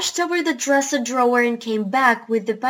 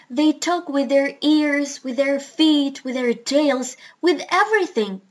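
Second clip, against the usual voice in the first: higher, building list, peak on "everything"; emphatic listing; 3 semitones higher, 3 dB louder than usual. A narrator's reading. Parrot explaining animal talk to the doctor, emphatic listing. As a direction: punch "ears", "feet", "tails", then "everything".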